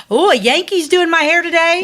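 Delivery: imitating a client's put-on horror; mock Florida client. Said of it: "they'd be like".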